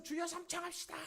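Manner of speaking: high, loud prayer call; leader's rallying call. Retold or imitated. Prayer leader to the congregation, loud rallying call. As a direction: summon the congregation to cry out. Leader calls for three shouts.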